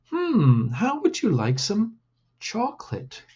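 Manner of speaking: put-on high, teasing boy, rising to the treat; playful older cousin teasing; sly boy voice. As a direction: dangle the chocolate like a secret. Lino tempts Pepe.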